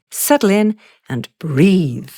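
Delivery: calm invitation. Real, not acted. Host invites listeners to relax.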